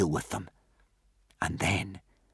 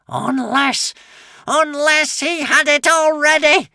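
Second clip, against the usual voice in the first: rising high loud dread; horrified realisation; 9 dB louder, slower than usual. A narrator's reading. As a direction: realise it with horror. Witch's horror growing.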